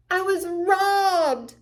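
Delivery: high, loud, slow cry of outrage; Sally furious at Linus; frustrated shout. Acted. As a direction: wail it out, cheated. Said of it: "she shouted".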